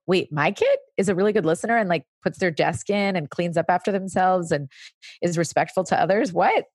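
mild mock disbelief, rising on the last word. Parent hearing a teacher praise the child, acted disbelief. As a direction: play a briskly puzzled, surprised parent.

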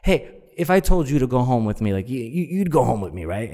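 high, quick, teasing put-on voice; lightly voiced flirt pushing her luck; flirty woman.

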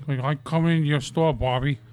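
lightly voiced character impression; imitating him. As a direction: put on his voice a little. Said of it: "Kinda sound like him sometimes".

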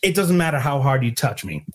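high, heated dare to swing first; taunting dare. Retold or imitated. Bartender daring the quarterback to hit her, in high heated defiance.

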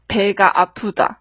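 teacher modelling "배가 아프다"; Korean demo. Shown as a demonstration. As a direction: clear "배가 아프다" for learners. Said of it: "韩文的话就是".

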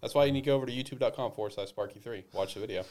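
distant, off-mic voice; speaking from far back in the room. Real, not acted. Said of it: "the reason I sound far away".

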